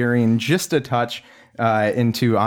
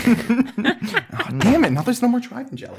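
laughing while complaining, higher; 14 semitones higher than usual. Real, not acted. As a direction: laugh through the words.

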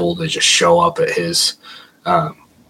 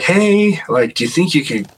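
a lightly higher coaxing call; coaxing Randy; 8 semitones higher than usual. Retold or imitated. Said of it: "And Randy was like".

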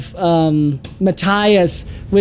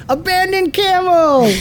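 laughing; 8 semitones higher than usual. Real, not acted. GM laughing at camel scene.

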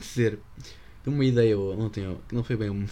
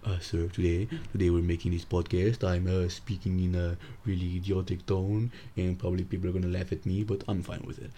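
fake Indian accent; 4 semitones lower than usual.

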